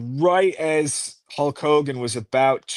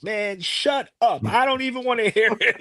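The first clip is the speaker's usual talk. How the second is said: mock annoyed retort; 9 semitones higher than usual. Bam Bam snapping at the manager in the locker room, mock annoyed. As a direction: play the sore wrestler brushing him off, half-joking. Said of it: "and he's like".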